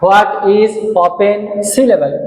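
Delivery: the whole question read slowly in one go; teacher reading the question back slowly; slow whole-phrase read. Shown as a demonstration. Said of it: "question mark".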